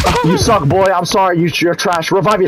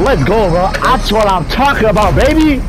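gym bro hype; 4 semitones higher than usual. Real, not acted. Hype after winning the match.

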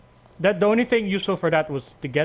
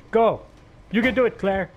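cheering; 9 semitones higher, 6 dB louder than usual. Real, not acted. Cheering on Claire in game.

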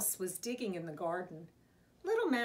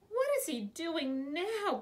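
higher-pitched, exasperated grumble; grumbling; 6 semitones higher than usual. A narrator's reading. Big Mouse annoyed with Little Mouse, grumbling. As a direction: grumble with a rising complaint. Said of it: "Big Mouse grumbled".

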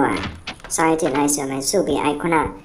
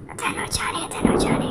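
hushed whisper; 5 dB quieter than usual. Real, not acted. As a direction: whisper while hiding. Hiding, whispering.

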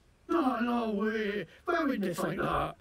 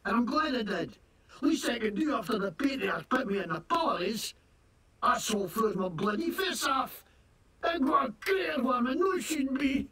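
fake Scottish accent. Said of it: "what the hell kind of accent is that, you fake-ass Scottish nonsense".

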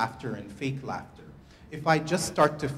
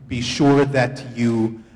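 calling out; 7 dB louder than usual. Real, not acted. Laughter yoga teacher directing the room, calling out louder. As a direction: call the instructions out to the group.

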